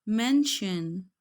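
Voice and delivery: मेंशन stretched very slowly; slow drill of मेंशन; slow German word. Shown as a demonstration. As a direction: draw out मेंशन for learners. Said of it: "एससीएच जो है वो शीन की sound देता है".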